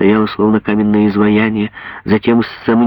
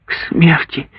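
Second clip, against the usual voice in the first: higher, breathless cry of horror; mother cries out on hearing of the death sentence; horrified exclamation; 8 semitones higher than usual. Acted. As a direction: gasp out the words in shock. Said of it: "воскликнула Гудула".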